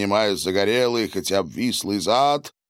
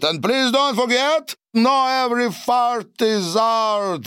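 pompous master of ceremonies, English; grand announcement; 14 semitones higher than usual. A narrator's reading. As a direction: announce it like a ringmaster to the whole table. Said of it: "объявил Дональд".

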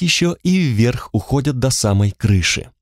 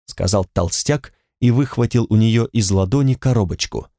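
ordinary delivery, nothing marked

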